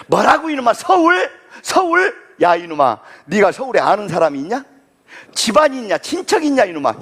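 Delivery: gruff father rebuking his son, shouting on 서울; mock shout of disbelief at the son; hammed-up angry father; father scolding. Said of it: "우리 아버지 뭐라고 하실 줄 알아요".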